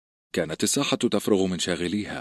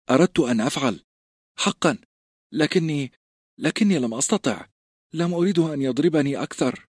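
put-on a nervous fat boy, higher, halting; timid stammering boy; 7 semitones higher than usual. A narrator's reading. A frightened boy explaining to the recruits why he didn't fight, halting. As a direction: stumble over the words in shame.

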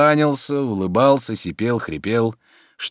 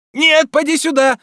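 high and loud summons; loud call; 6 dB louder than usual. A narrator's reading. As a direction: call him back loudly. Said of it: "громко сказал он".

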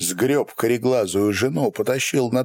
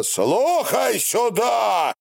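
commanding shout; 12 semitones higher, much slower than usual. A narrator's reading. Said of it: "крикнул Корнило".

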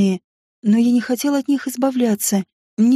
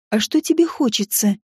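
flirty. Acted. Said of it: "заигрывая".

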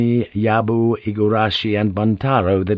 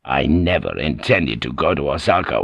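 lower, unhurried, stress on never; calm lord revealing; 7 semitones lower than usual. Acted. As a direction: let it land lightly, a secret revealed. Toranaga reveals his trick.

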